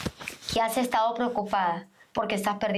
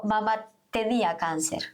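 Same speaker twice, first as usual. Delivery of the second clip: "tenía" set apart and firmly emphasised; pause, then a deliberate "tenía"; stress on tenía. Retold or imitated. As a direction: lean on "tenía" to mark it as past. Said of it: "yo le dije, "Tenía".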